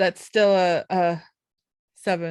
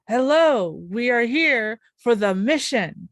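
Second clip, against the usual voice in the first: a touch louder, slow, lightly voiced dragon; big dragon voice; 2 semitones higher, 5 dB louder, slower than usual. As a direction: put on your best big-dragon voice, slowly. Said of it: "their big, like, best, like, big dragon voice".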